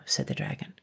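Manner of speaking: plain reading voice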